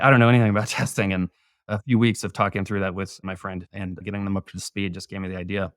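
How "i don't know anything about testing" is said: изображает лёгкую панику, быстро и громче; retold panic. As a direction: quote them in a mild, rushed, louder panic. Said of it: "they're panicked and they're just like".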